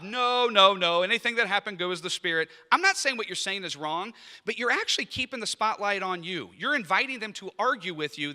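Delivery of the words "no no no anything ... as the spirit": mock humble protest. Worship leader deflecting praise again, hammed-up protest. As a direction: insist it was all the Spirit, overdoing it. Acted false humility reply.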